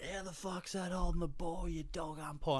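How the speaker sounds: high-pitched imitation of an irate footy fan; mock outraged heckle. Footy fan abusing the umpire over holding the ball, mock outraged.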